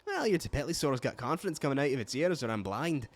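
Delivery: Scottish keeper with tapped R's; casual, imperfect Scottish lilt; amateur Scottish accent. Acted. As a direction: sign off in a rough Scottish brogue. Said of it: "It's 'cause they tap the R's".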